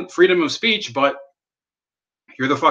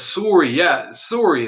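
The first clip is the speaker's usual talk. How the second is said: put-on Finnish accent; 4 semitones higher, slower than usual. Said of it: "That's how, that's how he says it".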